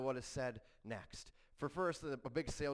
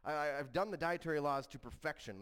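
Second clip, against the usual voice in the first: higher-pitched protest, mock indignant; Peter; 6 semitones higher, 4 dB louder than usual. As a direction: plead your spotless record in protest. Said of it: "Peter is really struggling with this because he says".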